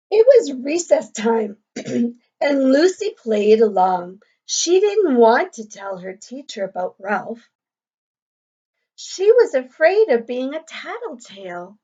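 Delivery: clear, lively storybook reading to a class; reading to children. A narrator's reading. Teacher reading a picture book to the class, lively and clear. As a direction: read the story aloud to young pupils.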